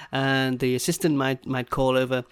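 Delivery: ordinary talk, nothing marked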